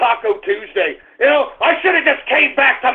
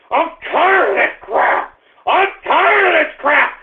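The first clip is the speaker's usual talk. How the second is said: fed-up outburst; 2 semitones higher than usual. Real, not acted. Fed-up outburst starts building.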